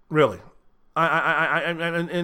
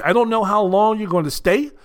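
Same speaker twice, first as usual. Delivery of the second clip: ordinary talk, nothing marked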